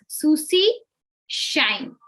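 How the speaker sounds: Susie said slowly, each sound apart; crystal clear. Shown as a demonstration. Teacher shows the S and SH sounds clearly to students. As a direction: separate the S in Susie from the SH in shine. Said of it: "I will read it like this".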